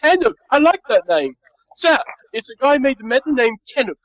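high, eager dim servant; simple-minded servitor. Acted. Servitor relays name to master.

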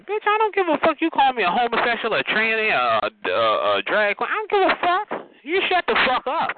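high-pitched, indignant clapback; defiant tell-off. Acted. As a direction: shut them down in a high, sassy voice. Telling off an absent heckler.

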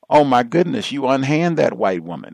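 high, loud, scandalized cry; hammy stage actor. Retold or imitated. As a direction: overplay a shocked white lady. Acting out a white woman's reaction.

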